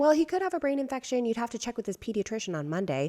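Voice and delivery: high, hurried mock-doctor quote; imitating a dismissive doctor; indignant retelling. Retelling doctor's alarming advice, indignant.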